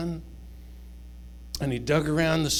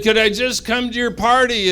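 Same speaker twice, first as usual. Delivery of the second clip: lightly voiced little bunny, higher; a small bunny asking shyly, pitched up; timid bunny; 8 semitones higher, 6 dB louder than usual. Bunny asks to join party.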